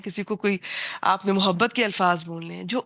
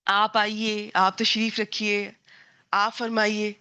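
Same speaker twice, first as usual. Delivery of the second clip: respectful Urdu. Shown as a demonstration. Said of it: "Urdu میں پھر ایک ریسپیکٹ بڑی فیل ہوتی ہے".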